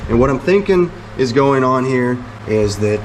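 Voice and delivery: usual speaking voice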